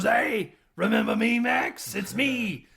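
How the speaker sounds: a silly high puppet voice; puppet hand voice. Retold or imitated. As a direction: play the severed hand greeting him. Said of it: "He goes".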